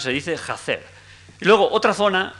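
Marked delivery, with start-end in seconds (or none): 0.0-0.8 jacer with a rough j sound; dialect form. Shown as a demonstration. Lecturer demonstrates the eastern form, jacer with harsh j. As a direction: jacer said with aspirated j. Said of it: "pero aunque se dice cases".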